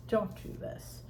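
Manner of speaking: breathy whispered Don't do this; whispered plea. Shown as a demonstration. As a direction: whisper it as a soft warning. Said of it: "repeated softer, whispered".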